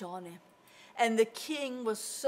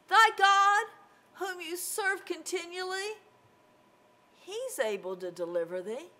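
high, uncertain king's question, loud at the start; doubtful questioning; 8 semitones higher, 4 dB louder than usual. Acted. King wondering if God can save Daniel, doubtful. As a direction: ask it high and wavering, unsure of the answer. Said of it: "wouldn't have said it like that".

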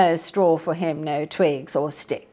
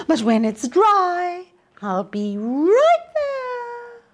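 Red Riding Hood; 11 semitones higher than usual. A narrator's reading.

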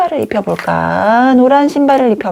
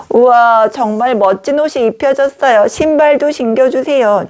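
lightly raised pretend doll voice; delighted doll voice; 3 semitones higher than usual. Paper doll admires new outfit and asks for shoes, delighted. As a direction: play a thrilled doll, pitched up toward the end.

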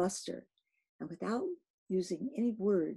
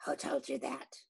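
crying out; 6 semitones higher, 3 dB quieter than usual. A narrator's reading. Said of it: "cried Ahab".

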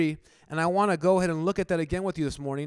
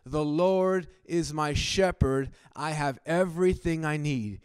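slow, weighty, louder declaration; slow bold declaration; 3 dB louder than usual. Retold or imitated. Preacher repeats David's words more slowly and boldly. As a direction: lean on each word with conviction. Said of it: "with, with boldness".

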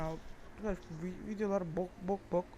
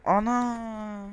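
loud, higher, drawn-out exclamation; shocked cry; 4 semitones higher, 10 dB louder than usual. Real, not acted. Shock at game event.

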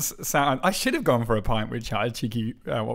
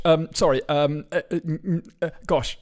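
Hugh Grant; 3 semitones higher than usual. Pretend. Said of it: "that's my Hugh Grant".

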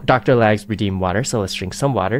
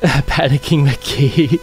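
laughing panic; much slower than usual. Real, not acted. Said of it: "I'm super panicked".

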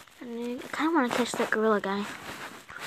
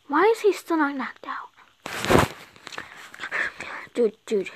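whisper; 3 semitones higher, slower than usual. Real, not acted. Tense battle moment whispered.

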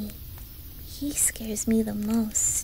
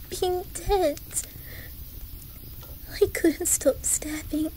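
higher, upset voice; distraught confession; 5 semitones higher than usual. Acted. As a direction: plead that it was not meant, pitch raised.

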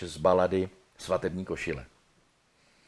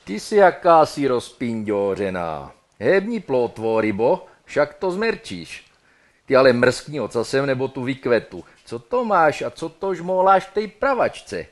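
loud Brno hantec slang, rising higher at the end; 4 semitones higher, 8 dB louder than usual. Acted. Dead man hustling his girl in Brno hantec slang. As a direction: rattle it off in cocky Brno hantec. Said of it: "Brněnsky by to mohlo znít asi tak".

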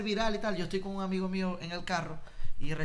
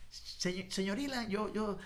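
put-on halting, slightly higher, starstruck kid; mildly acted nervous fan; nervous stammer; 3 semitones higher, 4 dB quieter than usual. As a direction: stumble shyly over the words as you approach an idol. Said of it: "los nervios, yo no hallaba qué decir".

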